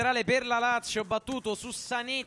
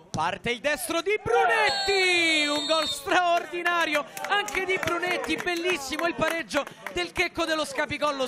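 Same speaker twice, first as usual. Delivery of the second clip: breathless italian goal commentary; 4 semitones higher than usual. Real, not acted. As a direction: build the goal call, stretched out. Free kick goal commentary.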